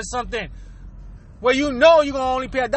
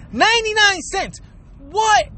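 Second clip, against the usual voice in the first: pitched up high, incredulous; mock disbelief; 6 semitones higher than usual. Real, not acted. Ranting to viewers about the grocery line, incredulous and high. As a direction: act stunned at the price.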